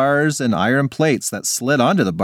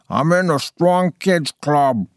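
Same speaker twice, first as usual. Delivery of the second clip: talking through pizza; mouth full; 4 semitones higher, slower than usual. Acted. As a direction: mumble round a mouthful. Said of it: "with her mouth full".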